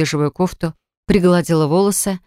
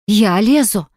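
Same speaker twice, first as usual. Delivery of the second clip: a slightly raised, croaked question; hoarse croak; 3 semitones higher, slower than usual. A narrator's reading. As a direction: croak it out in mild indignation. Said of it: "прохрипела она".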